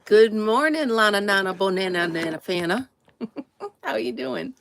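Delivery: lightly cooed sing-song greeting to a pet; pet talk. Real, not acted.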